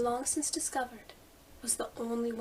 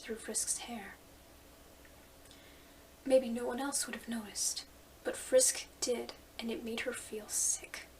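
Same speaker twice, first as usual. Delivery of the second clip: whispered narration. A narrator's reading.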